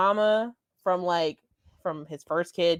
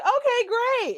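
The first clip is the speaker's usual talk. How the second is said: high mock voice; much slower than usual. Retold hero's flat reply.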